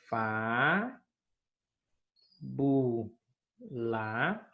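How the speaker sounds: "fá, bu, lá" with long pauses between the syllables; split into syllables. Shown as a demonstration. Teacher showing pupils how fábula splits, syllable by syllable. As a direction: break "fá, bu, lá" into its three syllables. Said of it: "Podemos separar".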